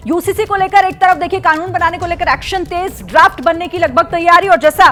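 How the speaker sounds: brisk anchor delivering breaking news; breaking news read. Acted. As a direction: read it out as a TV headline update. Anchor reads breaking news update.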